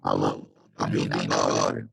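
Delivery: garbled alien-like call audio; distorted robotic voice over bad internet. Real, not acted. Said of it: "Parece um extraterrestre falando".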